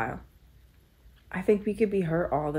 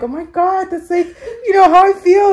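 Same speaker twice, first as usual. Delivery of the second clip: high emotional outburst; 14 semitones higher, 10 dB louder than usual. Real, not acted. Emotional recognition.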